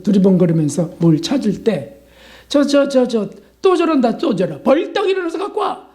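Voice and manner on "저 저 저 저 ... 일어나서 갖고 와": higher, exasperated nagging at someone fidgeting; annoyed nagging. Retold or imitated. Preacher imitating an annoyed family member at the table, nagging. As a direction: act out irritated grumbling, then a sharp order. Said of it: "이렇게 하지 않고".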